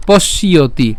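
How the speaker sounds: পশ্যতি slowly as "posh-iyo-ti"; slow pronunciation. Shown as a demonstration. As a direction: draw out each part of পশ্যতি. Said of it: "কেন পশ্যতি". (পশ্যতি ধীরে ভেঙে উচ্চারণ)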